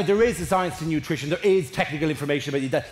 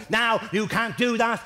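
lightly imitated nanny telling a child off, pitched up; a higher, mock-scolding nanny voice; Super Nanny; 5 semitones higher than usual. Nanny correcting a child on TV, mock scolding. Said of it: "Super Nanny walks in and goes to the child".

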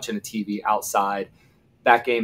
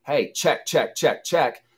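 higher-pitched urgent repeated call; retold yelling; 5 semitones higher, 4 dB louder, slower than usual. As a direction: call the check out to a teammate, raised pitch. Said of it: "I was yelling at him".

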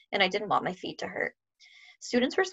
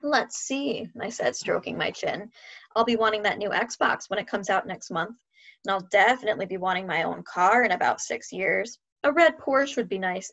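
mock greedy. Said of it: "about to get very greedy".

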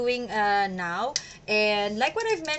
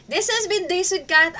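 bright, louder outro; excited sign-off; 8 semitones higher, 8 dB louder than usual. Real, not acted. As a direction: announce it with energy.

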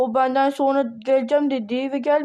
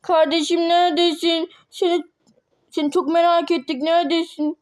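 calling out; 3 semitones higher than usual. Acted. Calling for missing sister.

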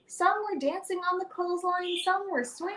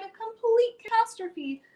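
cried; 5 semitones higher than usual. Acted. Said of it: "I cried".

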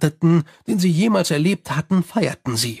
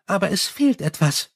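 higher, chatty vampire voice; Sally complaining about her bats, higher and chatty; 3 semitones higher than usual. Acted. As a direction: rattle on cheerfully like a gossiping vampire.

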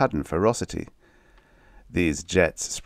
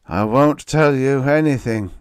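loud, higher defiant refusal; 8 semitones higher, 7 dB louder than usual. Acted. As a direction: spit the refusal back at him. Captive defying interrogator.

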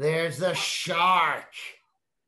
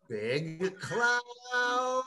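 big voice; 7 semitones higher than usual. Shown as a demonstration. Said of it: "Big, big, little".

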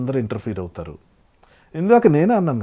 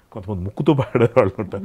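ముక్కుతో పాడేవాళ్ళు pushed through the nose; nasal singer imitation; 3 semitones lower than usual. Shown as a demonstration. Interviewer hears him mock singers who sing nasally.

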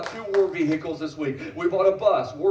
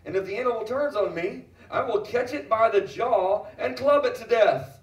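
David's boast; 3 semitones higher, 3 dB louder than usual. Acted. Preacher quoting young David to the congregation, bold boast. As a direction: preach it boldly, building in force.

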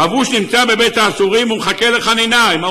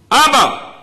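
raised-pitch call to father; mild acted cry; 6 semitones higher, much slower than usual. Preacher voices a wordless heart's plea, mild high cry. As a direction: cry out higher, without a full shout. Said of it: "צועקים".

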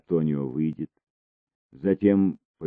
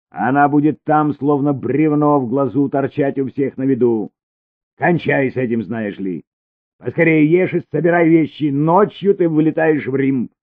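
high, loud, hard commands; angry orders; 10 semitones higher, 8 dB louder than usual. A narrator's reading. Cesare orders Elina to pack, loud and angry. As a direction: lay down the law.

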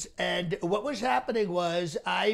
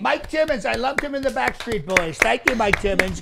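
booming thanks; 3 semitones higher, 7 dB louder than usual. Acted. President loudly thanking a donor, showman style. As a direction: boom it out to the donor.

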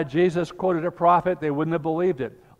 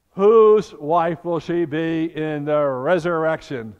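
gleeful gotcha; 5 dB louder than usual. Retold or imitated. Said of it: "they just think that's gloriously funny".

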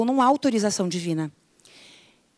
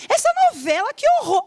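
much higher, louder disgust; mock horror; 12 semitones higher, 3 dB louder, faster than usual. Viewer appalled by a soap opera, high and loud.

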